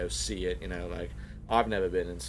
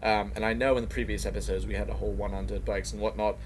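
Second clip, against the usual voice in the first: put-on Australian accent. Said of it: "this is more of an Australian accent".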